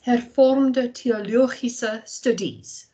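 slow careful Afrikaans accent. Shown as a demonstration. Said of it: "I will try and use my best Afrikaans accent here".

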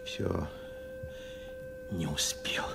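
whispered aside; whisper to self. Acted. Old man whispers, talking to himself alone. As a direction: breathe it out to yourself.

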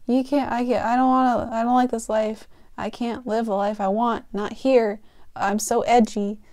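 whiny angsty sulk; hammed-up brooding complaint; mock edgy teen. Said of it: "she's like".

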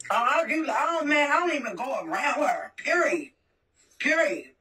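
choked-up real crying; tearful. Real, not acted. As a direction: voice catching on the edge of real tears. Breaks down talking about sister.

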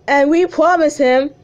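high, loud cartoon boy voice; Gumball voice. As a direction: insist like a cartoon kid keeping a promise. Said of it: "that's my voice for Gumball".

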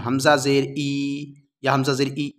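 हमजा जेर ई stretched out, then hurried; mock the pupil's mistake by pulling the zer long; wrong way, dragged or rushed. Shown as a demonstration. Teacher shows students how not to read the zer. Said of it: "ऐसे नहीं पढ़ना है".

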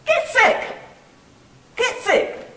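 very high, loud outburst; exclaiming. Real, not acted. Preacher retorts to people afraid of getting sick, exclaiming. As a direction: throw it back at full pitch and volume.

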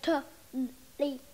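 TO-LY-E in separate, drawn-out beats; broken into syllables. Shown as a demonstration. Child explaining a misheard word to the adult, sounding it out. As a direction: slowly sound out to-ly-e, piece by piece. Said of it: "Get it? It's like".

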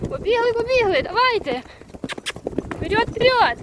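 excited urging. Real, not acted. Rider driving the herd forward, excited high calls. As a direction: call out high to get them running.

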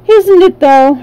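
gleeful tiger. A narrator's reading. Tiger relishing.

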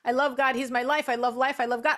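rattled off in a quick, even run; rote recital. Acted. Doubter showing that saying the words changes nothing, rote recital. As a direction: recite the declarations by rote, barely pausing. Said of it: "I could say all I want".

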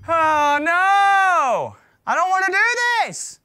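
high loud scared whine; panicked yelp. Real, not acted. Panics at Funtime Freddy.

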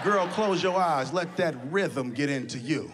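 slow, breathy crooning; a singer's lyric. Retold or imitated. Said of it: "a singer was talking about".

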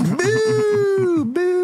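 high, long-held boo. Acted. Kids boo the dentist, mocking jeer.

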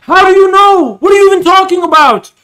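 high, loud, fast yell of disbelief; shouting at the video. Real, not acted. Streamer yells back at the clip he is watching, loud and fast.

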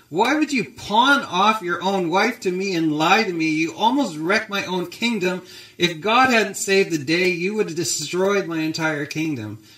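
angry Pharaoh. Acted. Pharaoh confronting Abraham over his lie, angry. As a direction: play an indignant ruler telling someone off. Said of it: "Pharaoh's angry. He's going".

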